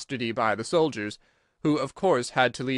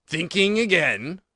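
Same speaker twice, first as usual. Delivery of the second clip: slow, teasing duchess question; 5 semitones higher, 4 dB louder, slower than usual. A narrator's reading. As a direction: needle her slyly. Duchess pokes Alice.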